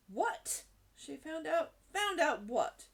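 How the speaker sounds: high, loud, startled questions; acted shock, pitched well up; alarmed demand. A narrator's reading. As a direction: burst out in disbelief, demanding to know. Startled headmistress demands an answer.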